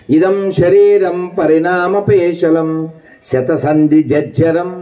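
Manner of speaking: slow, measured chant of a Sanskrit verse; slow scriptural recitation. Shown as a demonstration. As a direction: intone the verse deliberately, syllable by syllable.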